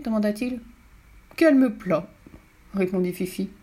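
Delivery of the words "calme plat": high-pitched breezy reply; cheery report. Acted. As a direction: answer pitched up, as if all is well. Fifi cheerfully reports to papa. (réponse enjouée, voix aiguë)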